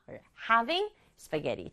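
having and spaghetti punched, slow; stress on having and spaghetti. Shown as a demonstration. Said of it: "한 번 더". (having과 spaghetti를 강조해서)

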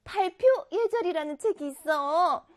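put-on high character voice; chatty octopus aunt. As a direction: play a lively cartoon aunt talking to children.

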